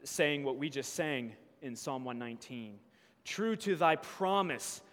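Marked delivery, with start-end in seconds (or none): 3.2-4.8 pleading cry building to a loud high shout. Acted. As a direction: beg God louder and higher with each line. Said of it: "when Paul cries out".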